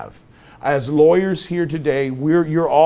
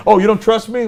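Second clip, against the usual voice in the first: high, loud, indignant comeback; mock offended; 8 semitones higher, 7 dB louder than usual. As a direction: play affronted, pitch and volume up. Acting out an offended reply.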